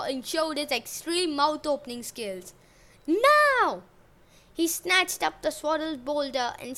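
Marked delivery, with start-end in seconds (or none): 3.1-3.8 loud, high, drawn-out roar; roared command. A narrator's reading. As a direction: roar the order at full force. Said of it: "Cronus roared".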